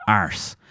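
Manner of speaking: "arse" with the r sounded; Irish pronunciation. Shown as a demonstration. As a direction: correct it to a firm Irish "arse".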